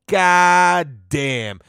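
God damn tossed off at normal pitch, both words together; quick god damn. Retold or imitated. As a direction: say it quickly, like a passing remark. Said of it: "You know what I mean?".

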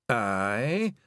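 quavering, drawn-out Scottish answer; a touch of terror, wavering. A narrator's reading. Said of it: "Rob Anybody quavered".

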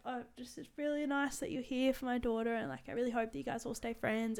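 soft, slightly high imitation of Dad; gently gushing mock speech; imitating a softly heartfelt dad; sentimental dad. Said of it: "then just goes like".

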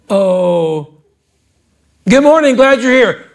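a sunny churchgoer's hello; cheery greeter. Pretend. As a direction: play the overeager usher greeting folks. Mock greeter welcoming churchgoer.

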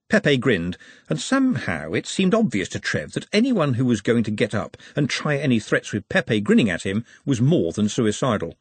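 usual speaking voice

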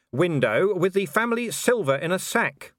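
a dry, understated copper's retort; dry Vimes. A narrator's reading. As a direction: answer flatly, making a point. Vimes voiced in dialogue.

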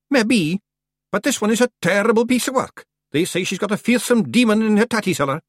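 high, excitable little Scottish clansman; squabbling Feegle, wary of the witch. A narrator's reading. Tiny Feegles argue over approaching the old hag, squabbling. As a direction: pitch it way up with a broad Scots lilt.

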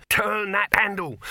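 loud, high, urgent shout; screamed command. A narrator's reading. Dibbler shouting at the handleman, loud and urgent. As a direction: yell it in one sharp burst. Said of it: "screamed Dibbler".

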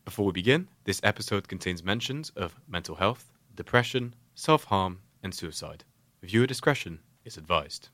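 measured trigger-warning read with deliberate pauses; podcast announcer voice. Pretend. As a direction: read it like an official content advisory. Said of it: "That was such a good podcast voice".

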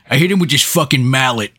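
mock Sandler voice. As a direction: play along in a silly comedian's voice. Riffing in Sandler voice.

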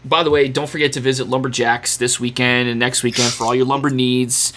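casual local radio ad read; lazy radio infomercial. Acted. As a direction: read it like an offhand radio spot. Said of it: "That sounded exactly like a lazy radio infomercial".

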